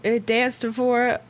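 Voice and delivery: lightly put-on southern accent; half-committed southern accent; southern accent attempt. Shown as a demonstration. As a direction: read it with a modest country twang. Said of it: "I need to read one".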